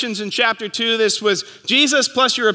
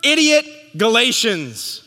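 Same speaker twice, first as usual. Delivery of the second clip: amused reading; 4 semitones higher, slower than usual. Retold or imitated. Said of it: "It says".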